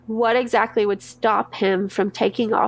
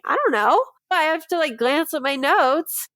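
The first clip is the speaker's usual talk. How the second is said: higher-pitched imitation of not knowing; mock clueless reply; 6 semitones higher than usual. Witness answering her lawyer about a date, mock clueless. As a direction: lightly act out being stumped, pitched up.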